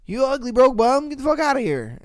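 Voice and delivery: imitating the girlfriend dumping him; mock brush-off. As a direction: kick him out with scorn.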